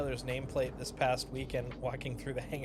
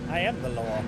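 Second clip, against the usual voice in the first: Mid-Atlantic Judge Dredd; 4 semitones lower than usual. Pretend. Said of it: "Judge Dredd if he had a Mid-Atlantic accent".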